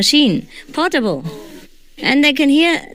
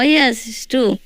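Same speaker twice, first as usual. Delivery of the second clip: ordinary talk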